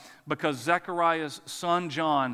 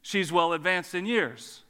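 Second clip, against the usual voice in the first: toned-down, polite rephrasing; nice way. Acted. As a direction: drop back to a tactful, measured delivery. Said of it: "say it in a nice way".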